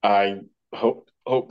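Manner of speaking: talking through hiccups; words broken by hiccups; hiccuping. Real, not acted. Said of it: "I cannot stop hiccuping".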